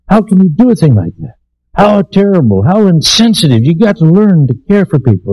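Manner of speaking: high-pitched, incredulous scolding officer; mock indignant rebuke. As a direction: imitate a superior dressing down a sergeant. Lieutenant rebukes the sergeant in story.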